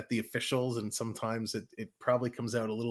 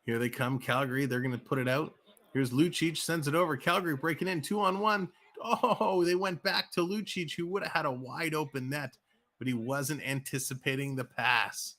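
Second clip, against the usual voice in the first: rising higher and faster on the two-on-one rush; excited play-by-play; 3 semitones higher than usual. Acted. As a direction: build the call as the chance opens. Rush up ice, building call.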